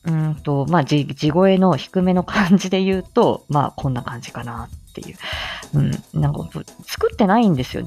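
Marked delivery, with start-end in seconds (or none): 0.7-5.2 her lower natural voice. Shown as a demonstration. Showing listeners her low natural register, voice dropped. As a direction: drop the tone low and let it settle.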